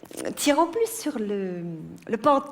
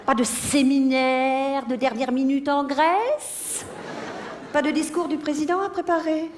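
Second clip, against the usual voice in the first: raised pitch, held almost on one note; pointed sarcasm; 4 semitones higher than usual. Acted. Wife questioning husband on his late meetings, sarcastic. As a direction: question him with falsely innocent, lifted tones.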